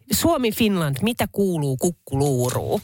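lightly voiced hawker's call; imitating a vendor call. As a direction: toss it out like a street seller. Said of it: "paikalliset huutaa". (kevyesti matkittu myyjän huuto)

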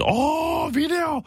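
very high, excited tourist squeal, mock; delighted tourist. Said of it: "No se". (innoissaan kiljahtava turisti)

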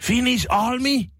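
high, excited mock tourist voice; Japanese tourist impression. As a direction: gush like an amazed Japanese tourist. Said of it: "oli silleen".

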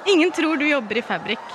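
reading jokes while giggling; fighting back laughter; laughing through lines. Real, not acted. Friend reads a roast aloud, giggling through it. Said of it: "jeg kommer ikke til å klare ikke le".

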